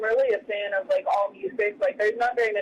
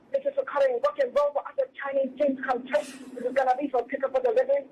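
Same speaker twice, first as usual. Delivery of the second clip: put-on Chinese accent; 3 semitones higher than usual. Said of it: "in, like, a Chinese accent".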